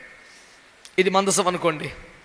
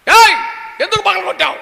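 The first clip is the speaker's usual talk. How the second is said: much higher, yelled scolding as a father; angry parent shout; 9 semitones higher, 6 dB louder than usual. Retold or imitated. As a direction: bark at the child who broke the glass. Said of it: "అన్నాం మనం". (తండ్రి పిల్లాడిపై ఎత్తైన స్వరంతో గట్టిగా అరుపు)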